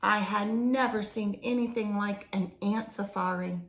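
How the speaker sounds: reading a picture book aloud; story narration. A narrator's reading. Reading a jungle story to children, storybook narration. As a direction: tell the jungle adventure to children, storybook pace.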